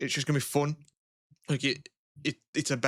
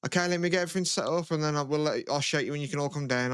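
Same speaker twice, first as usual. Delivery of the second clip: mum's voice; 3 semitones higher, faster than usual. Retold or imitated. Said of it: "she was like".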